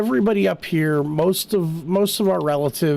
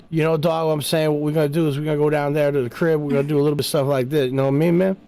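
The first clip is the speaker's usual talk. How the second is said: fast, lightly put-on urban accent; urban Allentown accent; much faster than usual. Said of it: "gonna get a very urban, uh, accent".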